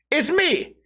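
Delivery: retold yell back. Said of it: "starts yelling back at them".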